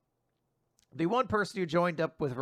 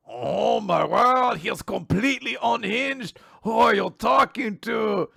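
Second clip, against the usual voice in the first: appalled; 5 semitones higher, 4 dB louder than usual. Acted. Charles shocked at Lance.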